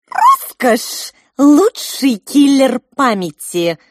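high, loud, slow grandiose squeak; pompous pink mouse declaiming, high and loud. A narrator's reading. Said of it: "высокопарно выразилась розовая мышь".

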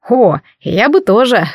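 slow, sly chuckling tone; sly smirk. Acted. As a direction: savor it like a schemer. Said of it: "коварно усмехнулся дядя".

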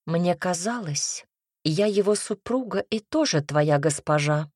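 understated icy hauteur. Acted. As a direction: pull rank with restrained coldness. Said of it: "ледяным тоном сказала я".

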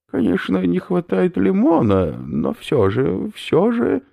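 high, loud lecturing professor; a delighted academic explaining his find; eccentric professor. Acted. Professor lectures captives on snail protein, high eager voice.

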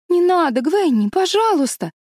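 высокий, громкий умоляющий детский голос; упрашивать подругу, почти хныча; умоляя. A narrator's reading. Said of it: "просила она". (умоляюще, голосом испуганной девочки)

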